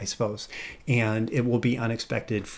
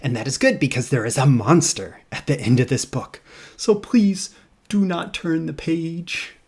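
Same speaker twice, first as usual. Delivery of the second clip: lightly voiced furry monster, hushed then pleading; conspiratorial little monster pleading; bad Grover voice. Grover pleads with the reader, lightly voiced and hushed. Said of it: "So here's Grover".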